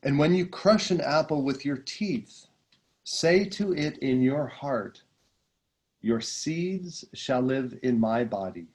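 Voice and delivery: slow, solemn reading of a sacred passage; reading scripture aloud. Acted. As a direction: read it like a meditation text, unhurried. Reads passage from The Prophet.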